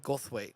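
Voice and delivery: "Goldthwait" with a lisped th in the middle. Shown as a demonstration. Co-host showing how to say "Goldthwait", lisped th. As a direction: say "Goldthwait" with tongue between teeth for the th. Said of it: "like you have a lisp".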